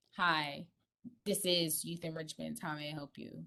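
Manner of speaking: flat, low, low-energy, unsmiling voice. Teaching phone manners, showing how an unsmiling answer sounds: answering without smiling. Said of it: "when you're smiling, people can hear that on the other side of the phone versus".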